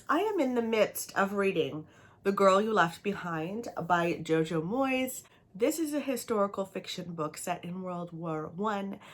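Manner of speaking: ordinary talk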